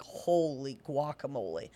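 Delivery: low, soft astonished gasp; a lightly voiced amazed listener; mock gasp. Friend hearing perfect Chinese, gasps in low soft surprise. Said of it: "If I had a Chinese accent".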